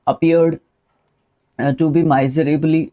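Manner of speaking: drawn-out, deliberate reading; teacher slowly reads the test sentence. Shown as a demonstration. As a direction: read it out slowly for the class. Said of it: "reading the sentence slowly".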